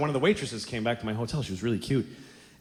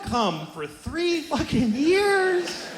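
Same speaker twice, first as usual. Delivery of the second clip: mock anguish; 12 semitones higher, slower than usual. Bit about boyhood misery.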